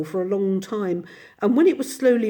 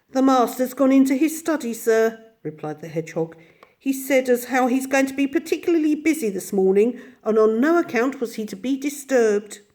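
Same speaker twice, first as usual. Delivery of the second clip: higher, polite little servant voice; young hedgehog servant; 5 semitones higher than usual. Acted. Hedgehog telling the Mole his master is busy, politely. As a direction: answer the guest dutifully.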